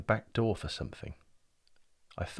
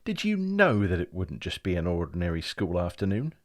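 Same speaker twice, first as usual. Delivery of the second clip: louder, rising, tripping over words; spluttering; 9 semitones higher, 5 dB louder than usual. Acted. Boy accusing the clock, spluttering with outrage. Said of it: "I spluttered".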